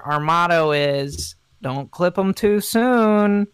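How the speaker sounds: slow, drawn-out pretend promotional spiel; lightly played small-town pitchman, stretching words; mock district spokesman. District fourteen rep plugging petroleum and toenails, mock spiel.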